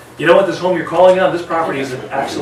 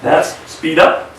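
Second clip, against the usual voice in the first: speed up; 5 dB louder, much slower than usual. Shown as a demonstration. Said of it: "I've been doing vocal variety".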